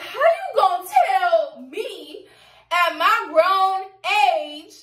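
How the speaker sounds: indignant, high-pitched re-enacted rant; heated. Grown woman telling friend she pays bills, heated. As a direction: argue back in outraged disbelief, voice climbing. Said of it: "I'm over here so heated".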